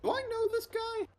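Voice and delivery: high, loud startled question; surprised. Real, not acted. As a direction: blurt it out in shock. Shocked reveal at table.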